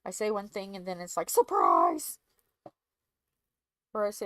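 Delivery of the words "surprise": loud, low, booming Surprise!; surprise shout. Pretend. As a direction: yell it like a jack-in-the-box. Acting out surprise stream.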